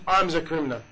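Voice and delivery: a quiet, understated confession of fault; humble confession. Retold or imitated. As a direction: own the blame quietly. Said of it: "he said".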